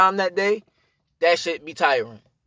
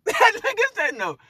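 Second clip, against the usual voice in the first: laughing; slower than usual. Real, not acted. Laughs while mocking friend.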